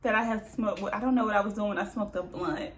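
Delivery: a hint of someone trying to sound like somebody; Mary's put-on voice. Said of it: "She talk like she's trying to be somebody".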